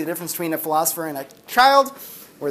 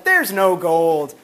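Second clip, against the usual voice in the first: slow declaration; 2 semitones lower, much slower than usual. Retold or imitated. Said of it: "I was like".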